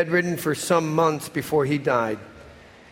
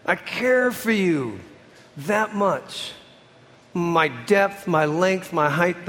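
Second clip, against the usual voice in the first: raised, emphatic voice of God; 3 semitones higher, slower than usual. Retold or imitated. Preacher voicing God calling out his love, raised and slow. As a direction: proclaim it like God calling across creation. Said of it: "God screams in creation".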